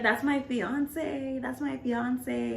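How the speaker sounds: high, slow, drawn-out whine; imitated protesting girl. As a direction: mimic her stretching out each word. Retelling interrupting girl's drawn-out protest.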